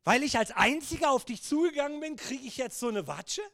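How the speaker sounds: hammed-up aggrieved complaint; indignant protest. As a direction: protest the unfairness, rising then dropping. Peter's indignant protest, acted.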